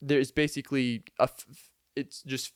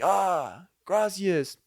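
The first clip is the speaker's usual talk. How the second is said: mock Hispanic accent, higher; 6 semitones higher, much slower than usual. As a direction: playfully voice the grateful worker. Worker thanks him for the shoes.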